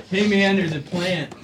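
slow stoner-hippie ad voice; slow "hey, man" commercial parody; old album-ad voice. Acted. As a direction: draw it out like the album-ad guy. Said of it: "I used the album-ad voice".

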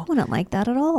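soft unvoiced whisper; whispered, fond aside. Real, not acted. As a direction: breathe it without voice.

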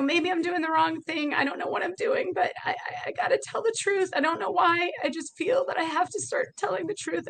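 high, strained voice, close to crying; confessing fear to her best friend, pitched high and teary; scared, near tears. Retold or imitated. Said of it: "And I woke up crying".

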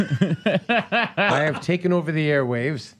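slow laughing alien broadcast; slow, grand alien overlord; booming arrogant alien overlord. Retold or imitated. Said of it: "And then you said".

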